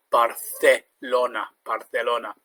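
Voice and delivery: Barcelona said as Barthelona; Castilian th. Shown as a demonstration. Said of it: "it has a th sound".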